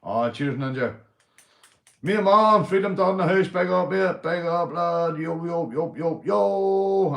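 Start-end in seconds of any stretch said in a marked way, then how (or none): 2.0-7.1 higher and louder, pumped-up big up; hyped shoutout. Real, not acted. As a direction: hype the chat like a hype man.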